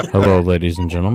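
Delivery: airplane pilot voice. Pretend. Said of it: "You sound like an airplane pilot".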